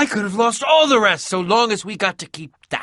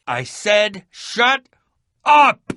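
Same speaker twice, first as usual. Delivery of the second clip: angry shout; 3 semitones higher, slower than usual. Acted. Angry repeated order to quiet.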